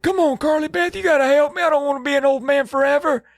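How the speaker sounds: put-on high, strained old man voice. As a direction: croak it out like a frail old man. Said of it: "Steve's like".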